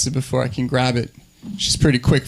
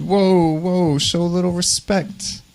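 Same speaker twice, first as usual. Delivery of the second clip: high, slow, stretched-out objection; slow it down and pitch up in protest; mock offence; 5 semitones higher, slower than usual. Comedian to date who asked about Satan, mock offence.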